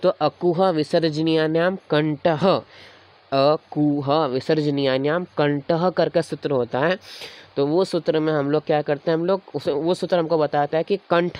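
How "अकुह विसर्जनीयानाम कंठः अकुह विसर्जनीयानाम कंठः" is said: slow sutra recitation. Shown as a demonstration. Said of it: "जैसे इसका सूत्र है".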